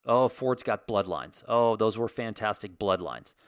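slow, savoring imitation of Trump; lightly voiced Trump, slowed down; mock Trump drawl. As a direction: stretch out bloodlines like you're relishing it. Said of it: "slowed down".

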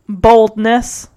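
understated deadpan impersonation; a hint of a monotone droner; Ben Stein. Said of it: "sounding like Ben Stein".

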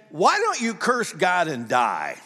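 slow, mocking shouted taunt; a wife sneering at her suffering husband, shouted slowly; scornful shout. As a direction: hurl it at him as the nagging wife. Wife urging Job to curse God.

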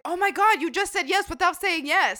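animated, high-pitched disbelief; mock astonishment. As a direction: imitate a brother crowing over a giveaway. Brother's astonished reaction, retold.

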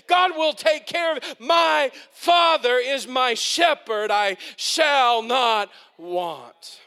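rising pulpit fervour; preaching. Acted. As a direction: preach it to the whole room. Preaching at full force.

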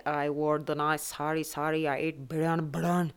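a hint of an Indian accent, words doubled; lightly mock Indian accent, repeating each word. Telling listeners about Eid, a light Indian accent. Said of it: "when I'm doing it in an Indian accent".

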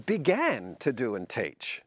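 slow, with "began" leaned on hard and set apart; stress on began. Shown as a demonstration. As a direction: press the word "began" to show it only started. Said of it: "which means that Jesus hasn't finished".

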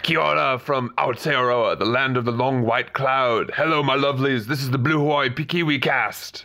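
playful mock New Zealand show intro; cheery fake Kiwi announcer; put-on Kiwi accent. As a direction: ham up a Kiwi accent as host. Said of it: "all accents aside".

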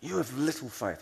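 exasperated scolding of someone who failed you; sharp, swooping note of reproach; angry rebuke. Shown as a demonstration. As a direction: say it as a frustrated telling-off. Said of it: "angry tone".

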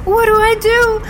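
put-on girl falling from the sky, terrified; panicked cry. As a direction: cry out in terror while falling.

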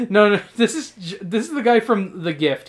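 laughing through the correction. Real, not acted. Laughing as he corrects Sam's wrong guess. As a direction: giggle out the words as you correct him.

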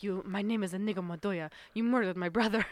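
lightly put-on Spanish accent; a hint of a Spanish swordsman's accent; Inigo Montoya Spanish accent. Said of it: "That was my Spanish accent".

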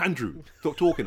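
teacher telling off. Retold or imitated. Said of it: "she just turns around and goes".

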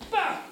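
high-pitched "bah" burst; retold panicked yelp. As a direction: cry out while diving for cover. Retold panicked cry while running.

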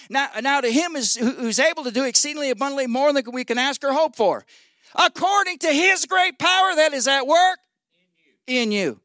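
emphatic scripture quoting, building high; preaching. Acted. Preacher reciting a verse to the congregation, preaching. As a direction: drive the verse home with rising force.

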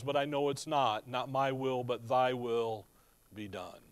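soft, low prayer fading to a murmur; quiet surrender. Retold or imitated. Jesus praying in the garden, quietly surrendering. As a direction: let it sink into a hushed yielding.

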